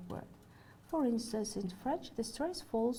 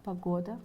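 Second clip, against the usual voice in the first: "погода" stressed on its middle syllable, ГО; stress on second syllable; 2 semitones lower than usual. Shown as a demonstration. Lecturer gives a Russian example of free stress, second-syllable stress in "погода". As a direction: put the weight on ГО in "погода". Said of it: "in another on the second syllable".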